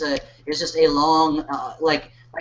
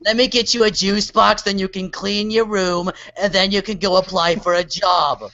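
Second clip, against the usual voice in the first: Jewish mother voice. Pretend. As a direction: nag gently like a Jewish mother. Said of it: "I can do a good Jewish mother voice".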